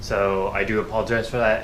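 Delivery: stuffy congested nasal voice; blocked nose. Real, not acted. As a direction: talk through a head cold with a blocked nose. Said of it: "nasally, 'cause I kinda got sick".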